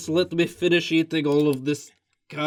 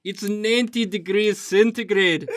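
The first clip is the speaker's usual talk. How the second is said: laughing; 6 semitones higher than usual. Real, not acted. Laughing at hot sticky beard.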